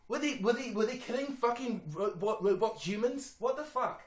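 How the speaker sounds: worked-up, high-pitched incredulity; incredulous rant. Real, not acted. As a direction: demand an explanation in loud disbelief. Still ranting about the exploding car.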